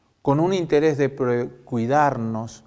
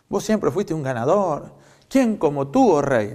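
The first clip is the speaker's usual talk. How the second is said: mock flattery, lightly sarcastic; a touch of fake praise; ironic. Prophet Micaías flattering the king, mildly ironic. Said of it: "con voz irónica".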